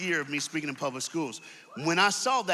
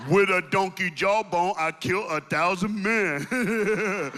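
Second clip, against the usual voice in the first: laughing recital; slower than usual. Retold or imitated. Samson reciting his poem.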